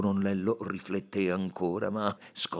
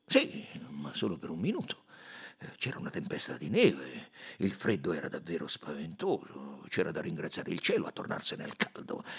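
gruff colonel. Acted. The colonel recalls the stop.

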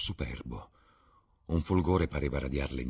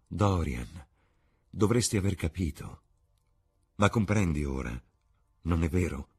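tender cadence. Acted. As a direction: gently coax him to understand. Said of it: "voce cadenzata come musica". (Sibyl parla a Dorian con dolcezza)

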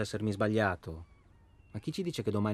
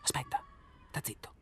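soft urgent hush, much quieter; 7 dB quieter than usual. Acted. Silencing his partner to listen for a sound, hushed. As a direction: cut him off under the breath. Hears a noise at night.

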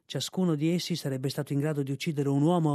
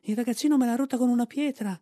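much higher, louder squealing complaint; shriek; 8 semitones higher, 4 dB louder than usual. Acted. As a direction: screech it out in fake pain. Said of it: "strillò".

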